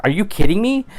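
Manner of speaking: high, rising, disbelieving question; you can't believe what's on the road; incredulous outburst. Retold or imitated. Walker spotting a rock, high incredulous outburst. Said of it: "seeing a rock".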